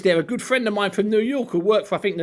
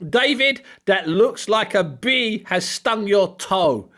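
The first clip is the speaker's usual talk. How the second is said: put-on Ukrainian accent; slower than usual. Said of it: "Vladimir's deep Ukrainian English".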